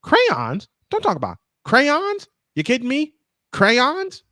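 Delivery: put-on high, slow, incredulous older man; Jim Morris Senior voice. Reacting to a mom's video about crayons, in a high outraged old man voice. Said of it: "I had to give it the Jim Morris Senior voice".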